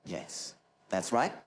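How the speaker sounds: lightly voiced nasal techie confirming; a hint of a nasal British nerd; Maurice Moss. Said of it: "an impersonation of Maurice Moss".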